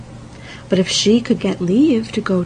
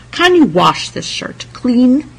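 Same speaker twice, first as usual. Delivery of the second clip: calling out; 5 semitones higher, 6 dB louder, slower than usual. A narrator's reading. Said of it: "he cried".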